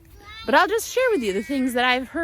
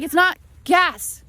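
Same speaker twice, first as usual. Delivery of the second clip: imitating Luca; 3 dB louder than usual. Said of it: "He was like".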